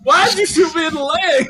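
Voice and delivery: high, loud yell through laughter; playful laughing outburst at friend; laughing mock shout. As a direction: shout it while cracking up.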